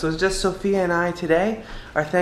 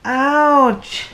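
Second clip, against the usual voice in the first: pretend pain; 5 semitones higher, slower than usual. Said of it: "I didn't really fall down".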